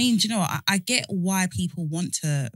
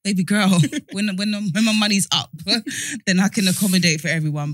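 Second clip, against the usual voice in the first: laughing. Retold or imitated. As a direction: tease her through laughs. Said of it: "I'm just like".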